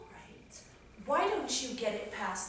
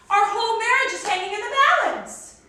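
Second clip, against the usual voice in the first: high, loud, dramatic cry; alarmed, full-voiced outburst; distraught shouting; 10 semitones higher, 11 dB louder than usual. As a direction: wail it loudly as a catastrophe. Wife shouting in quarrel.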